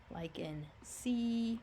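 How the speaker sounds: sea stretched with a long ee vowel; long E sound. Shown as a demonstration. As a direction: say sea slowly, ee drawn out. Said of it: "it's going to say E".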